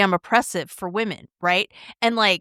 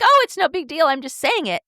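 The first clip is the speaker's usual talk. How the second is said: mock dismissive; 6 semitones higher than usual. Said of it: "And you're like".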